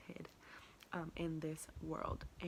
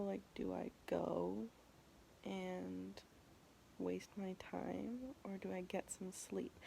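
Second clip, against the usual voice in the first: tired whisper; 5 dB quieter, slower than usual. Real, not acted. Tired whisper before dawn.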